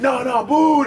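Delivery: loud, high mock jeer; shouted retold heckle; imitated crowd booing. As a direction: boo like a hostile audience. Imitates crowd booing him again.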